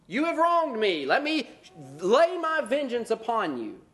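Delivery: hammed-up booming judgment; mock divine wrath. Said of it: "Did he say".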